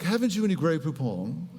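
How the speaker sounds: lightly prissy posh voice; a touch of upper crust snootiness; mock posh. Preacher joking about proper Bible Jesus, mock posh. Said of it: "It's like".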